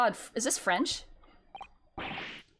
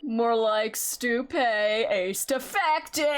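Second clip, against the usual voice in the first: mocking; 2 semitones lower, much slower than usual. Real, not acted. Mocking the misread detective title.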